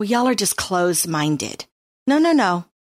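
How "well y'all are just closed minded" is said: ordinary delivery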